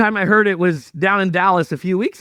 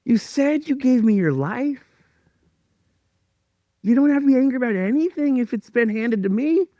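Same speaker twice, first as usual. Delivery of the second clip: voice of God; 8 semitones higher than usual. Retold or imitated. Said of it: "And then God was like".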